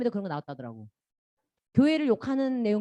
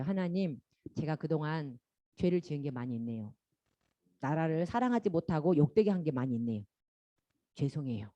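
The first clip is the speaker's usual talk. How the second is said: quiet prayer; 8 semitones lower, 7 dB quieter than usual. Acted. Modeling a repentance prayer.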